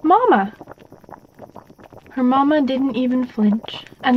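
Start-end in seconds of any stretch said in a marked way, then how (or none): 0.0-0.5 insistent call. A narrator's reading. Ignored child calls mother louder.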